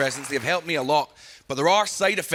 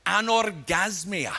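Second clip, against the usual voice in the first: drawn out very slowly; slow clinical word; much slower than usual. Acted. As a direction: savour the word anorgasmia syllable by syllable.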